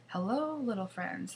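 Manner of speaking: slow, icy sweet greeting; slow mock-sweet villain greeting; Snow Queen. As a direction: draw it out like a cold queen.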